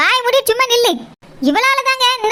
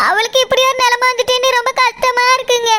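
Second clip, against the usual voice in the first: tearful lament, words through sobs; crying. Acted. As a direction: grieve for her mother, crying. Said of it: "அழுவே பார்த்தா".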